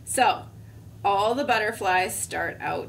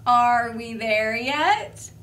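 whiny impatience; 4 dB louder, much slower than usual. Acted. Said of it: "And then he says".

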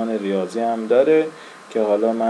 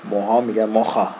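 Russian accent. Shown as a demonstration.

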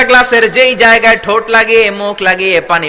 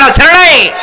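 louder call-out, NAI rising then falling; loud rallying call; 5 semitones higher, 4 dB louder than usual. Real, not acted. Preacher urging the congregation to answer loudly, rallying shout. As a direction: demand a loud answer from the crowd. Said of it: "জোরে বলেন".

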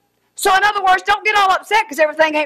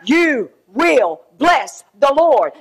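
low, slow self-persuasion; mock inner voice, drawn out; talking to self; 4 semitones lower, slower than usual. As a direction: coax your own soul slowly. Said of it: "he was saying".

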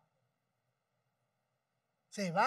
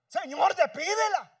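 slower begging; 8 semitones higher, 6 dB louder, slower than usual. Retold or imitated. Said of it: "les rogaba".

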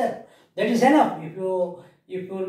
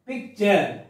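PICTURE split as "pic, ture"; stop inside word; 3 semitones lower than usual. Shown as a demonstration. Teacher repeating for pupils where the stop is, broken in two. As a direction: pause after the k in PICTURE. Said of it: "There is a stop here".

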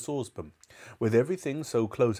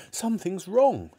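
put-on alarmed boy; 10 semitones higher, 4 dB louder than usual. A narrator's reading. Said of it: "George said".

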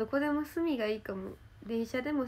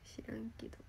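whispering; 14 dB quieter than usual. Real, not acted. Whispered tag-on "I dunno.

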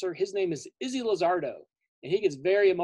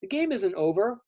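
frustrated Blossom; 4 semitones higher than usual. Acted. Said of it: "And she's like".

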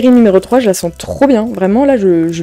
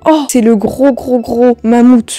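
excited recognition; 3 semitones higher than usual. Real, not acted. Recognizing the mammoth card.

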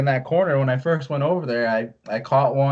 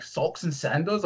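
imitating Canadian teammates, rounded "socks", drawn out; Canadian accent; 5 semitones higher, 6 dB quieter, slower than usual. Canadian hockey teammates razzing the newcomer's footwear, in mock Canadian accent. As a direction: tease in a softer, slow mock-Canadian accent. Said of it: "like, in their accent".

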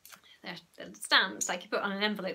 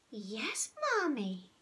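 put-on best little boy voice; 2 semitones higher, 3 dB quieter, much slower than usual. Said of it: "using his best little boy in the world voice".

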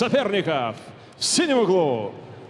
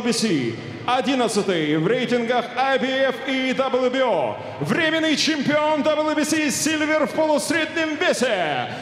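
measured ring announcer voice; boxing ring announcer; 2 semitones higher than usual. Acted. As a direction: announce it to the arena. Ring announcer introduces red corner.

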